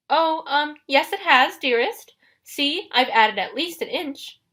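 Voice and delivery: high, placating fake-bride voice; nervous falsetto disguise. A narrator's reading. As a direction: stall sweetly in a high falsetto. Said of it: "in his falsetto voice".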